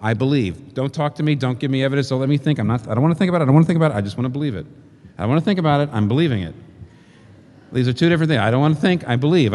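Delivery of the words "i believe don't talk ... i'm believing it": mock stubborn believer. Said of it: "a lot of people say".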